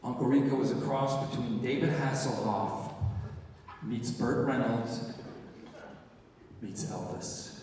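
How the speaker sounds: measured, pausing before each name; very serious. Retold or imitated. Director solemnly describing the character to his actor, very serious. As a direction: imitate a director's earnest pronouncement. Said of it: "he gets very serious".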